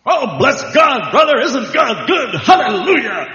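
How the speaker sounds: overflow with hallelujah cheer; gushing church brother. Retold or imitated. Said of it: "He says".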